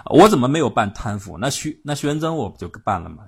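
annoyed Chiang Kai-shek. Retold or imitated. Chiang rebuffs Syngman Rhee's advice, annoyed. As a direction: bristle as if the rumours insult him. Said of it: "蒋介石有点不高兴".

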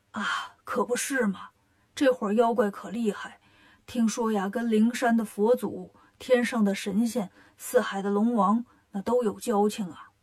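put-on an old man leaning in with rumours; old grandpa voice.

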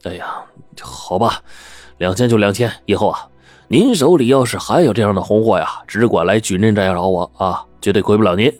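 feigned reluctance. Acted. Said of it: "李掌柜装出一副没辙的样子说".

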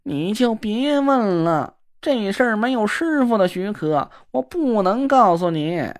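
simpering sissy man. Acted. Na Ruolan fawning after the girl who ignores him, simpering. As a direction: coo at her like a fawning dandy.

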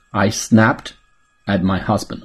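phrase-by-phrase repeat-after-me delivery, rising on "snapped"; careful teaching demo with a pause after "snapped"; slow model reading. Shown as a demonstration. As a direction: model it in two chunks for learners. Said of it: "来做跟读练习".

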